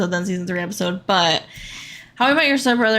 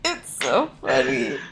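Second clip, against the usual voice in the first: crying laughing; 3 semitones higher, 4 dB quieter than usual. Real, not acted. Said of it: "I'm crying laughing".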